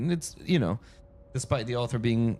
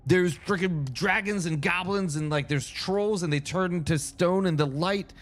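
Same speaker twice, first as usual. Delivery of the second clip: amazed gushing; 5 semitones higher than usual. Retold or imitated. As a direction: gush like a kid who found magic. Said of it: "I'm like".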